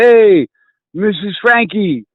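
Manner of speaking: retold greeting call. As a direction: call out to get her attention. Calling out to friend's mother.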